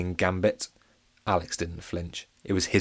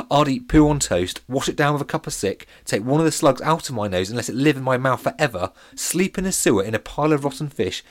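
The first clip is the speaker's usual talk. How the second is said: put-on boasting boy; 5 semitones higher, 5 dB louder than usual. A narrator's reading. Alex boasting disgusting list.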